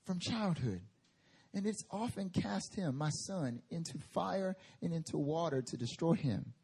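soft, grieving father's words, read with feeling; emotional reading. Shown as a demonstration. Pastor voicing a grieving father to the church, hushed and pained. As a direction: let the father's pain come through quietly. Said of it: "Imagine his emotion".

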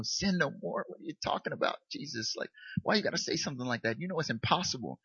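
hushed, half-joking protest to Jesus; quiet mock exasperation; mock complaint. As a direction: grumble under your breath at the verse. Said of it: "I always wanna skip".

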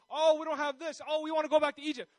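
high, loud mock whining; grumbling. Israelites moaning to Moses about Egypt, mock grumbling. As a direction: pile on the complaints, hammed up. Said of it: "they're grumbling all the time".

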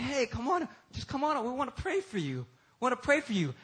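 high, lightly voiced invitation; gentle coaxing. Church member invites nervous newcomer for prayer, coaxing. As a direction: coax them as if they might bolt.

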